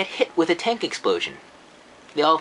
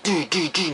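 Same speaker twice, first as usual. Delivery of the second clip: imitated thuds. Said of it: "he's like".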